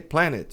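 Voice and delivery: PLANET in two syllables; wrong sounded E. Shown as a demonstration. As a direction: pronounce the E as "PLA-net". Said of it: "se você pronunciar esse E".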